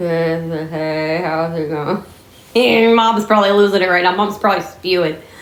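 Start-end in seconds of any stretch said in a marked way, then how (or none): 0.0-2.0 mock sleepy, half-asleep, groggy, much slower. A speaker imitates how a man sounds before his coffee, imitating someone half-asleep. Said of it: "he sounds like he's just like".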